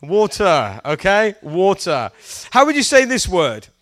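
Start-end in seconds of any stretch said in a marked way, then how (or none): 0.0-0.8 WATER as WAW-tuh with crisp t; British water. Shown as a demonstration. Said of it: "I would say water". 1.4-2.1 WATER as WAW-tuh with crisp t; British water. Shown as a demonstration. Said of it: "I would say water".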